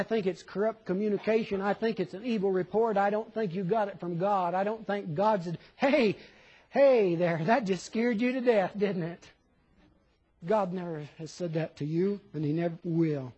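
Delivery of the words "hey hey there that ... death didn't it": loud, jaunty hail; put-on hearty greeting; mock calling out. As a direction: call out as if hailing someone.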